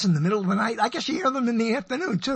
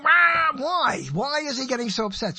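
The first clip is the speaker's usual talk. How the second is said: exasperated cry; 5 semitones higher than usual. Real, not acted. Exasperated at father's anger.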